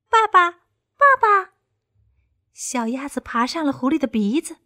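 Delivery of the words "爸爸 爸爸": high, loud, slow little duckling cry; delighted baby duckling shouting papa; duckling calling papa. A narrator's reading. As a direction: squeal it like a tiny duckling. Duckling calls fox papa.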